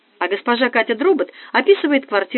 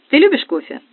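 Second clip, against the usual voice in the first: put-on giddy party girl; 7 semitones higher, 5 dB louder than usual. Nastya chirps.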